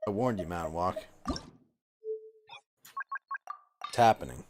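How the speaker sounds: ominous. Acted. Ominous joke prophecy.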